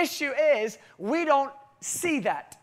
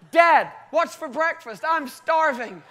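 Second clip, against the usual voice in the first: raised-pitch, louder child impression; imitated eager son; 4 semitones higher, 5 dB louder, slower than usual. Son demanding breakfast from his dad, imitated boisterous child. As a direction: blurt it like a hungry little boy. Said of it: "Levi comes in the bed".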